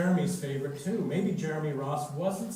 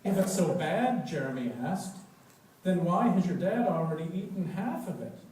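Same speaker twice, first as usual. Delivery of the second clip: louder, higher doubting question; skeptical; 3 semitones higher, 5 dB louder than usual. Acted. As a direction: challenge him, unconvinced.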